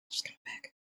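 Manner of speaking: whispered aside. Real, not acted. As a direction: murmur it under your breath. Aside, unvoiced.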